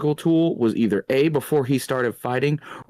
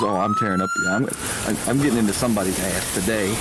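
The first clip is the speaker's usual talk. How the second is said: voicing the eager dog; faster than usual. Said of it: "That dog was".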